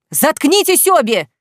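Said shouting down both women; furious bark. A narrator's reading. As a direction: bark them both into silence. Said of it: "рявкнул Саид".

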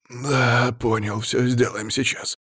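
nervously obliging underling; flustered. A narrator's reading. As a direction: agree hastily, a bit rattled. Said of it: "засуетился начальник".

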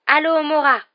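high, loud incantation; spell cast. Acted. Hermione casting a spell on the window, loud and high. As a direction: fling out the spell.

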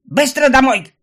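mother barking her son home; barked order. A narrator's reading. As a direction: snap out the order. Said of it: "рявкнула под конец она".

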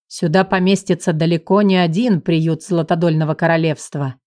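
low, relaxed teasing male voice; teasing husband. Acted. The husband teases his wife, lightly voiced low and amused. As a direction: gently rib her in a low voice.

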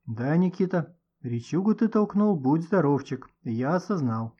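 ordinary delivery, nothing marked

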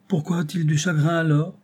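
put-on high, innocent child's question; a touch of naive child voice; naively. A narrator's reading. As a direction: ask it wide-eyed like a little boy. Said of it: "demanda Georget naïvement".

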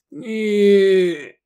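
hoarse croak. Acted. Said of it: "хрипнул Бог".

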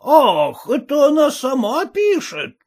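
taken aback; высокий удивлённый вопрос; surprised. A narrator's reading. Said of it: "удивлённо спросил капитан".

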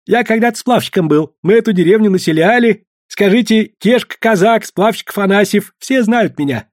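a sly trader bragging to the women; hearty farewell from a fawning merchant; chatty merchant. Acted. Merchant's long farewell speech.

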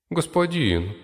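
put-on very high girlish servant voice. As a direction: squeak it out. Red servant speaks up.

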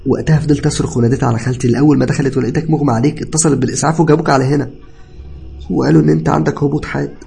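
high, loud, agitated account; tearful explanation. A narrator's reading. Cousin recounting the collapse to patient, distressed. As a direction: explain urgently, still upset. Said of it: "اتكلم ابن خالتي وهو بيعيط".

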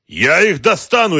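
slow, high, loud vow; enraged roar. A narrator's reading. Boss vowing revenge on the thieves, enraged roar. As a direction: roar out the threat. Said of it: "ревел Георгий".

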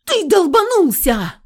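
put-on girl shrieks at the reckless boyfriend; shrieking. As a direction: screech at him in alarm. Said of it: "заверещала я".

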